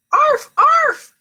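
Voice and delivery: high, loud yapping arf; barking. A narrator's reading. Sister Jujubee teasing Skippy, yapping like a dog. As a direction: yap like a little dog. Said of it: "barked Jujubee".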